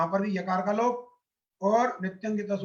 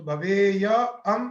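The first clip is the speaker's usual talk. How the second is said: भवेय and अम said slowly, kept apart; slow separated parts; 3 dB louder, much slower than usual. Shown as a demonstration. Teacher showing students the parts before joining, slowly. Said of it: "मिला दीजिए".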